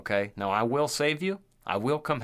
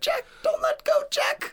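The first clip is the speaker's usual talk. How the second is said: very high, louder mock wail; mock desperate plea; 4 dB louder than usual. Joker teasing impaled friend with film line, mock plea. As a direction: squeal it like a hammed-up drowning heroine.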